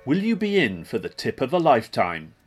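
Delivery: usual speaking voice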